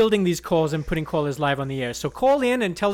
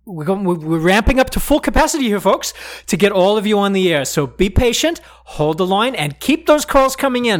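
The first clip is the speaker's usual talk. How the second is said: excited announcer; 2 semitones higher, 9 dB louder than usual. Acted. Host hyping listeners.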